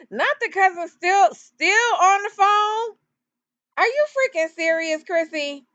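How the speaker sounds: laughing, rising high in disbelief; real amused incredulity. Real, not acted. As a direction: crack up at the absurd detail. Laughs at the cousin detail.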